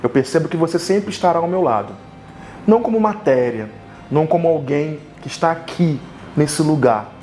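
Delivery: declamação de poema em frases curtas, com pausas; poesia improvisada. Real, not acted. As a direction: recite como um poema de amor, pausando entre os versos. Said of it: "através de uma poesia que eu vou improvisar". (declamação poética pausada)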